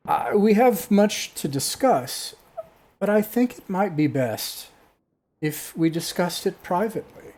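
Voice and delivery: high, loud, stately pronouncement; booming voice. Acted. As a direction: address guests like a grand enchantress. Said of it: "in an echoing, booming voice".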